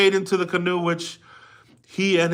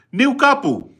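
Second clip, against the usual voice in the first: calling out; 9 semitones higher, 5 dB louder than usual. Shown as a demonstration. Teacher calling the name out to the class, high and loud.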